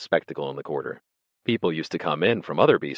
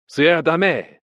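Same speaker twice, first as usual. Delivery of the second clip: loud, high parting call; brief call; 11 semitones higher, 8 dB louder than usual. A narrator's reading. Drinkers leaving for bed, brief called farewell. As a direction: call out a quick goodnight to the room. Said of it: "call briefly".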